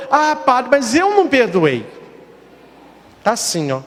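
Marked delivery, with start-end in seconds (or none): 0.1-1.9 put-on old lady voice.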